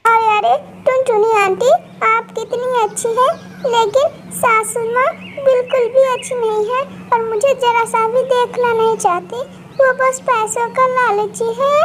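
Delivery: half-crying, hurt; tearful bride. Acted. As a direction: bride complaining to the kind auntie through tears.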